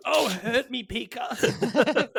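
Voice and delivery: high, loud, hammed-up creature voice; Pikachu. Comic as Pikachu begging to be hurt, high mock plea. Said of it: "He's just like".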